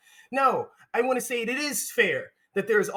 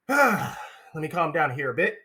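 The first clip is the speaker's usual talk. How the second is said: calming down; 4 semitones lower than usual. Real, not acted. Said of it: "it's getting a little angry".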